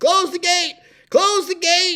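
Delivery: shrill, high, booming, loud yell. Retelling a calf breaking loose at a branding, retelling own yell. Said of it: "I'm yelling".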